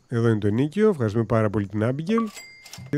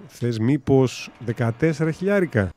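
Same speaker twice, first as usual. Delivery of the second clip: slow coaxing offer; slower than usual. Acted. Haggling over house price.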